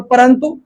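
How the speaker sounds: परंतु said "paran-tu"; tongue-tip n before तु in परंतु; n sound. Shown as a demonstration. Teacher models the rule, परंतु with n. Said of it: "तो इसमें न पढ़ेंगे इसको".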